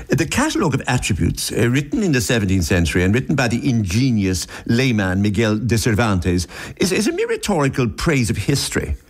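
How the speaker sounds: authoritative English accent, read out formally. Shown as a demonstration. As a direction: put on an English newsreader's accent. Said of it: "if you read this in an English accent".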